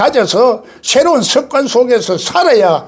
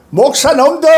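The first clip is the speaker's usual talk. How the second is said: contemptuous quote; 5 semitones higher than usual. Retold or imitated. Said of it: "하더라고".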